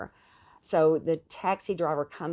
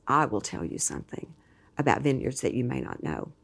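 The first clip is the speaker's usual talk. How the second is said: a lower, lightly voiced Italian accent; hint of an Italian accent, lower; thick Italian accent; 5 semitones lower than usual. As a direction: imitate the driver's thick Italian accent, not fully. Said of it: "very thick accent".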